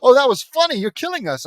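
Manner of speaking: huge, high faked cackle; hammed-up hysterics, loud then easing off; mock hysterical laughter. Friends react to buttered toast joke, exaggerated hysterical laughing. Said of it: "We all laugh hysterically".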